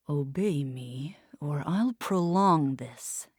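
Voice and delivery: whispered, slow menace; soft threat. Acted. Isko threatens Bay, slow whisper. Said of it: "Isko said softly".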